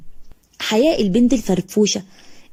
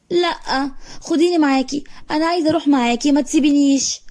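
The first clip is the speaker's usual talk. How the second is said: put-on higher, fast pleading little girl's whine; whiny crying child; 4 semitones higher than usual. Little girl whining at her mother not to be left behind. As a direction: beg her mom not to leave, near tears. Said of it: "وقعدت تدبدب في الأرض وتعيط".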